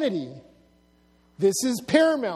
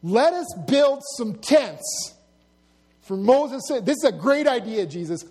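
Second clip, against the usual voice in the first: lightly acted enthusiasm, slightly raised voice; eager Peter; 2 semitones higher, 3 dB louder than usual. Peter proposing tents for Moses to Jesus, eagerly. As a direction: pitch the big plan with gusto.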